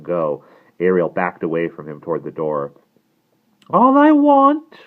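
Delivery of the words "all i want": high, drawn-out cry; loud pleading cry; crying out as the Icarus. A narrator's reading. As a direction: call it out high, loud and slow. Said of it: "cried the Icarus".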